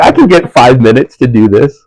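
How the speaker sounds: sighing self-talk. Retold or imitated. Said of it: "It's like".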